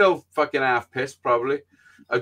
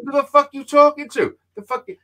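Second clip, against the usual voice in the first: loud, high-pitched outraged challenge; retold angry challenge; 11 semitones higher, 6 dB louder than usual. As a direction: act out squaring up in a row. Retold row with the sister.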